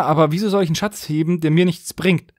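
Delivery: ordinary talk, nothing marked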